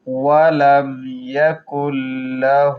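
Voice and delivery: له with the vowel held one alif; lengthened hu. Shown as a demonstration. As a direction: stretch the vowel of له one beat. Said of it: "এক আলিফ টান হবে".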